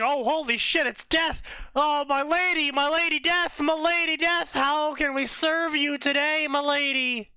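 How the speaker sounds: high-pitched, flustered goblin voice; fawning goblin. Pretend. Goblin recognizes Death and offers service, high fawning squeal. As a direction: gush like a starstruck goblin servant. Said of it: "the goblin who sees Death is like".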